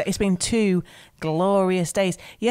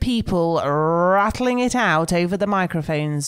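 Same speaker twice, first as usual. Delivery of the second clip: a hint of a cheery local DJ; breezy radio presenter patter, lightly done. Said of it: "talk in some sort of local radio voice".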